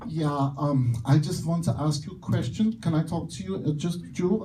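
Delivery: mock German accent, imitating a woman; thick German accent. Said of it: "with a very thick German accent".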